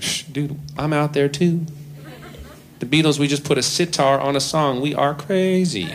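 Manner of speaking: lightly voiced smug Beatle, slowing on crazy; cocky John. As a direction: wave off the curator like a cool dude. John boasting to curator.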